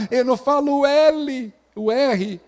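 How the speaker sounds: bem mais aguda, voz infantil de quem troca o R; voz de criança. Retold or imitated. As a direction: imite a criança falando errado. Imitando criança que troca letras. (criança explicando que não fala o R)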